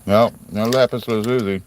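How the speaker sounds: talking around a lozenge; mouth full. Real, not acted. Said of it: "Sorry, I got a lozenge in my mouth".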